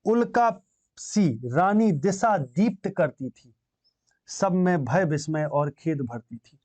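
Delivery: slow, lilting verse reading; poem recitation. Acted. Teacher reciting the queen lighting up the assembly, slow recitation. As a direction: recite it slowly and with measured weight.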